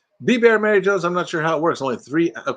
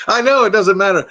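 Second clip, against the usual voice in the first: usual speaking voice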